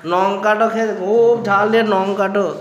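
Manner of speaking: imitating rural grandparents' Bengali dialect; country Bengali with broad tel as tyal. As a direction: lightly mimic an elder's village dialect. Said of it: "দাদুরা বলে".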